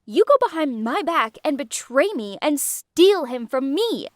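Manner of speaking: bitter, cutting accusations; Aaliyah's angry confession. Acted. Aaliyah confessing to Lou, bitter and a touch angry. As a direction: spit out the betrayal. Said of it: "Aaliyah interrupted us".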